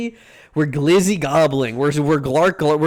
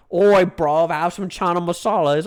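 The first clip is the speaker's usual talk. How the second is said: hammed-up, badly faked British; bad British accent. Streamer mocking a British dish, in a bad British accent. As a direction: do a terrible British street accent. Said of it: "that's the worst fucking British accent".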